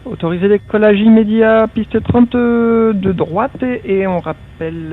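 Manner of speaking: loud, high radio readback; pilot over the radio. Real, not acted. Pilot reading back clearance by radio.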